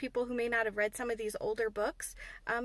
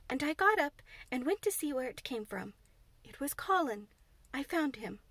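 Mary; 3 semitones higher than usual. Acted. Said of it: "Mary went on".

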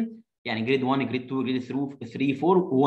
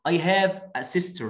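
slow model reading; 3 semitones higher, much slower than usual. Shown as a demonstration. Reading child's line slowly.

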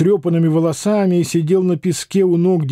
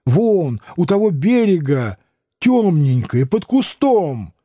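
frightened whisper; slower than usual. Acted. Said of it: "испуганно прошептала".

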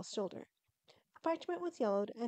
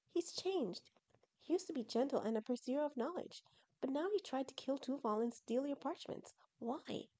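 troubled Shireen; 5 semitones higher than usual. Acted.

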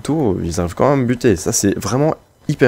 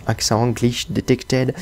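French words put on with a slow English accent; hammed-up English accent, drawn out; 4 dB quieter, slower than usual. Shown as a demonstration. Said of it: "Avec l'accent anglais". (accent anglais exagéré et lent)

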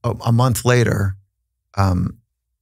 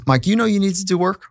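much higher, lightly voiced knowing woman; wise therapist; 10 semitones higher than usual. Therapist asking husband if he knows he must work, higher knowing voice. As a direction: play the calm, probing counselor. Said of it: "the wise woman stops us".

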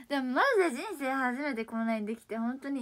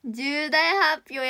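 excited; 9 dB louder, much slower than usual. Real, not acted. Announcing big news.

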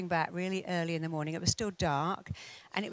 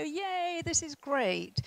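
mock cheer; 9 semitones higher, much slower than usual. Shown as a demonstration. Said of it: "we're gonna pretend".

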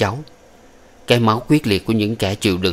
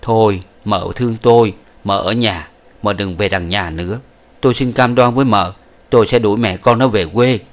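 pleading. Acted. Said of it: "Hưng lại phía vợ nằng nỉ".

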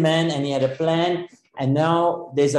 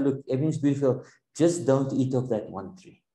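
softer and fast, friendly counsel; coax, don't command; gentle advice; 2 semitones lower, 5 dB quieter than usual. Retold or imitated. Preacher voicing God gently advising Adam, softer.

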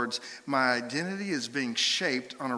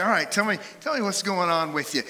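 higher, louder, eager counselor; counselor opening up; 5 semitones higher, 4 dB louder than usual. Acted. Pastor to counseling client, inviting. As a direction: invite them briskly to open up. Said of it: "and I say".

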